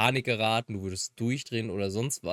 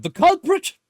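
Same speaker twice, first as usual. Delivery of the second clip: loud punchline; mock outburst at the joke; joking shout; 14 dB louder, slower than usual. Real, not acted.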